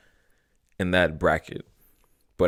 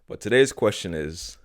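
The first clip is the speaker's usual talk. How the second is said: talking while chewing gum. Real, not acted. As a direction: speak around a wad of gum. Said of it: "Sorry, I'm chewing gum".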